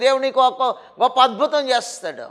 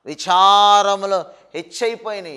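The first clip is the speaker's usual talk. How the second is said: normal talking voice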